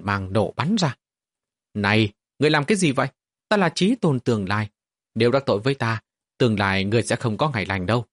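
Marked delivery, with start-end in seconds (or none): 1.7-8.0 angry threat. Acted. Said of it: "Đứa nhỏ kia tức giận, hung tợn uy hiếp".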